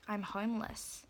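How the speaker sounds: subdued aside, acted out; under his breath. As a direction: say it quietly, as if to yourself. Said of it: "under his breath".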